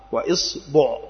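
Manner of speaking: إصبع with kasra on the hamza and damma on the ba, iṣbuʿ; vowel demo. Shown as a demonstration. Teacher listing the variant for students, careful iṣbuʿ. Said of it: "كسر الهمزة".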